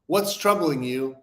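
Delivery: slow, gentle "What's troubling you?" with concern; soft and caring. Shown as a demonstration. Showing the gentle way to ask a friend what's wrong, soft and caring. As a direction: ask "What's troubling you?" kindly, inviting him to open up. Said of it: "comes off in such a soft, digestible way".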